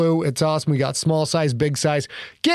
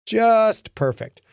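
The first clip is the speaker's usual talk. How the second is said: higher, slow, drawn-out sarcasm; heavy sarcasm; 6 semitones higher, much slower than usual. Acted. Lincoln exasperated at the kid, slow sarcastic emphasis. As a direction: lean into the exasperation. Lincoln's sour inner reaction.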